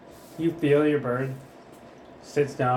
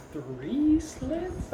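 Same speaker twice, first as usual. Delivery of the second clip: laughing disbelief; 10 semitones higher, 6 dB quieter than usual. Acted. GM voices pirate, laughing.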